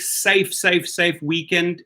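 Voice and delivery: "safe" repeated slowly, each one emphasized; stress on safe. Real, not acted. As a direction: lean on every "safe", drawing the repeats out. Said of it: "Emphasis on safe".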